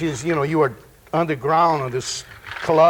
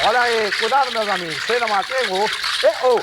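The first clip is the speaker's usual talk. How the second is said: calling out; faster than usual. Acted. Calling out like a street performer.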